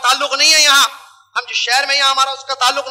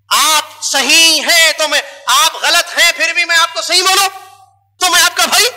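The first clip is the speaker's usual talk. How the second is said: mocking challenge; 4 semitones higher, 3 dB louder than usual. Real, not acted. Preacher mocking partisan brothers, louder scornful tone. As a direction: sneer at blind loyalty.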